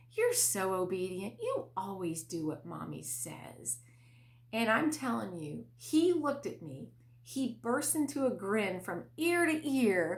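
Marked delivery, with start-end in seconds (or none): 0.2-3.8 overjoyed, delighted, sing-song voice. Retelling praising the child a third time: retelling a beaming, smiling line. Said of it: "I'm smiling and my face is lit up".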